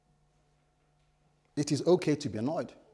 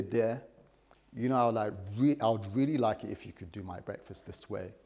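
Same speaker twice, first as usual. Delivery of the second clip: mildly softened, low-key appeal to a wife; gentle request; 4 semitones lower than usual. Shown as a demonstration. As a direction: ask it gently, without pushing. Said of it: "address each other gently".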